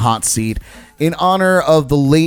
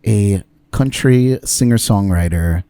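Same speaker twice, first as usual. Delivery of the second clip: hint of a measured, soothing interview-show host; lightly voiced formal TV interviewer, unhurried pauses; James Lipton impersonation; 2 semitones lower than usual. Host introduces his country singer guest, lightly impersonated soothing interviewer. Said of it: "It's my best James Lipton impersonation".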